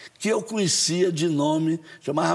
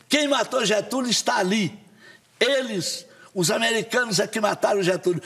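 rally cry; 5 semitones higher than usual. Retold or imitated. Accusing the Americans at the rally.

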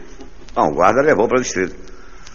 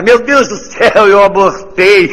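high, loud, slow panicked scream; 11 semitones higher, 7 dB louder, slower than usual. Acted. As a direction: shriek it in horror, drawn out. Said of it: "começou a gritar".

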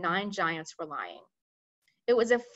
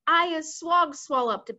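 higher, slow, louder bellow; bellowing giant; 7 semitones higher, 5 dB louder, slower than usual. Acted. Bonecruncher bellowing while squirming on the ground. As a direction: bellow it like a captured monster. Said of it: "bellowed the bone cruncher".

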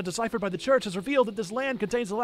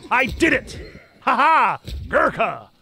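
excited cheer; 4 semitones lower, 6 dB louder, slower than usual. Real, not acted. Victory cheer over trolls.

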